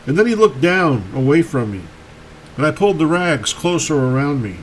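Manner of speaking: measured recital with lightly acted dialogue; poem reading. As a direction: read the verse as a searching exchange. Reads dialogue poem aloud.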